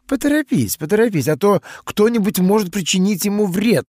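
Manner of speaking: brisk, urgent daughter; evil queen. Acted. Daughter voiced, called queen.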